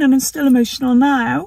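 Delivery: shaky after the appointment, holding back tears; emotional. Real, not acted. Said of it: "I'm a bit of an emotional mess".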